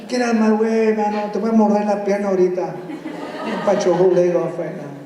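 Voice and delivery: fast, mock-menacing dog; dramatic voice. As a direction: play a grumpy dog threatening to bite. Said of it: "it's good to use our dramatic voices".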